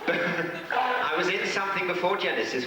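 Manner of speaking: high, helpless giggling into the words; laughing while trying to speak; real laughter. Real, not acted. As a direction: crack up, then talk through the laugh. Cracks up after mishearing the question.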